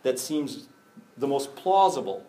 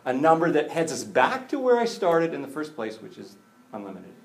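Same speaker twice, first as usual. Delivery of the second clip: in-your-face Jesus; 2 semitones higher, 4 dB louder than usual. Acted. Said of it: "gets right in their face and says".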